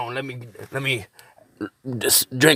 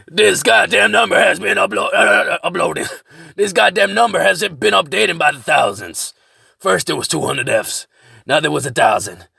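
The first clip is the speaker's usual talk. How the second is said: raised, rough rambling character voice; 5 semitones higher than usual. Acted. In-character survivalist rambles about death counts.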